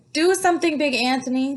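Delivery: high, loud plea; panicked townsfolk demanding help; crowd shouting. A narrator's reading. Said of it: "they shouted".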